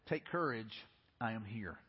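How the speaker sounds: low, soft, settling voice; steady the frightened, quietly; calm reassurance. Acted. Jesus to terrified disciples on the water, calm reassurance.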